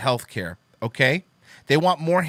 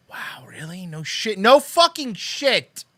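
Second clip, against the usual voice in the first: higher, louder, slow sarcastic blurt; 6 semitones higher, 4 dB louder, slower than usual. Real, not acted. Answering the obvious tweet, a loud slow sarcastic jab. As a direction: drag it out in scorn.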